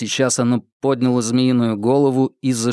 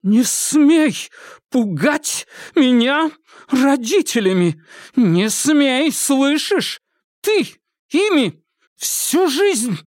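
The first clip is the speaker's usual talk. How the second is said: furious; 13 semitones higher, slower than usual. Acted. Irma rages at her sister, high and slow. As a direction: let years of fear out.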